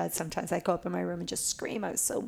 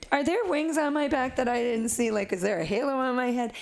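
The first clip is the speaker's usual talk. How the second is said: mock disbelief; 5 semitones higher than usual. Mock incredulous reply to clients.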